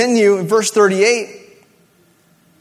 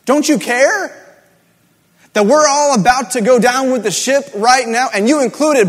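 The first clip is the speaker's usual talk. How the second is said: pleading outcry; 2 semitones higher than usual. Acted. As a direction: demand an answer from God. Disciples' plea repeated louder.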